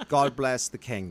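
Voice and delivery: slow, loud, plummy mock Brit salute; hammed-up British "God bless the king"; mock British toast. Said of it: "we gotta say".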